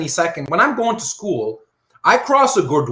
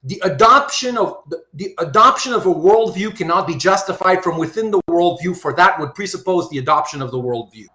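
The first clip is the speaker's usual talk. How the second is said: careful teacher's repeat; slowly, for emphasis. Shown as a demonstration. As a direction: lay out each word of the point deliberately. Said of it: "Let me say that again slowly".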